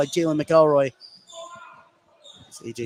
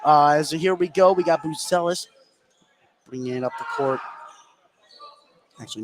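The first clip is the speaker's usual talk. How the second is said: track the ball pass by pass; live play-by-play. Real, not acted. Caller following each pass for viewers, building excitement.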